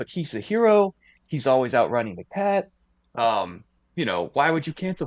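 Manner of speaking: acted, riled-up, agitated, worked-up voice. Retelling how people reacted to Speedy Gonzalez being cancelled, with mock agitation. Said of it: "So they start getting agitated".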